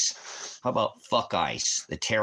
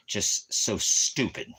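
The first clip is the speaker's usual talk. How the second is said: slow scorn; 4 semitones higher, much slower than usual. Real, not acted. Scornful remark.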